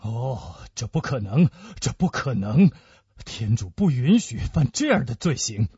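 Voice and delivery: low, horrified disbelief; deep voice, appalled; tormented dread. Acted. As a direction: refuse to believe a terrible suspicion. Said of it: "仿佛受到了最可怕的怀疑的折磨".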